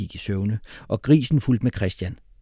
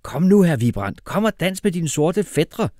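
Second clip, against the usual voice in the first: higher call to come dance; uncle calling out; 7 semitones higher than usual. A narrator's reading. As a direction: shout the invitation over the music. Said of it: "råbte onkel".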